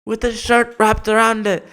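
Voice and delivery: high, startled dog voice; hammed-up high surprised dog; dog snapping to its senses. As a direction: realize in a shock what you're biting. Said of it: "they snap into focus and they go".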